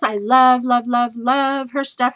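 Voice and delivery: 3 gush over a favourite designer; 1 raving. Real, not acted. 4 fan raving to viewers about Melissa Francis, loud and eager.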